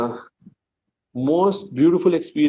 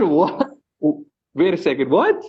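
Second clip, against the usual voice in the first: stunned double take. Retold or imitated. Retold stunned disbelief.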